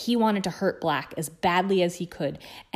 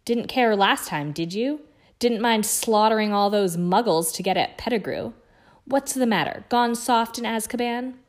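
angry taunt; 4 semitones higher, 4 dB louder than usual. Acted. Harry taunting Black angrily.

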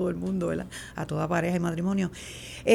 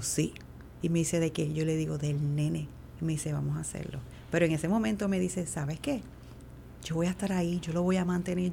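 quiet intimate talk; 4 semitones lower, 6 dB quieter than usual. Retold or imitated. Husband's intimate decision at retreat.

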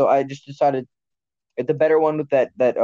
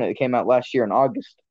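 voice crack. Real, not acted. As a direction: voice cracking on a word. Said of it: "That was a voice crack".

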